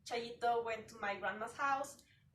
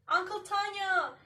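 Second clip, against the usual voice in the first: higher, louder mock scream; excited shout re-enacting a scream; retold scream; 8 semitones higher, 6 dB louder than usual. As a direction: call out loudly to your uncle, pitched up. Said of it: "and I screamed".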